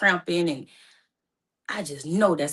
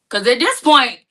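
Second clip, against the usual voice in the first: worried; 7 semitones higher, 11 dB louder than usual. Real, not acted. Worried about mom's partner.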